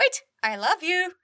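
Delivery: slow, high squawky parrot plea. Acted. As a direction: play the begging parrot. Parrot voiced pleading.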